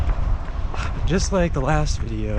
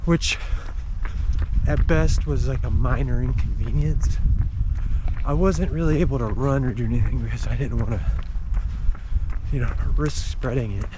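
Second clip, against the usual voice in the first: talking while running, a bit breathless; while jogging. Real, not acted. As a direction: speak as you jog outdoors. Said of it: "I'd be running anyway".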